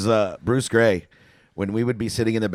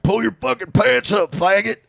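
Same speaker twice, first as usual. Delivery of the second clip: high, raised mock outrage; imitated angry heckle; 9 semitones higher, 3 dB louder than usual. Angry guy to Bruce on stage, imitated heckle. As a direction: imitate a fed-up man yelling. Acts out angry audience member.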